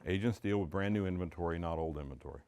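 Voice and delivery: said softly and low, almost to himself; quiet, low statement. Shown as a demonstration. Coach quietly sets up the idea for agents, soft and low. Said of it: "Huge concept for a seller".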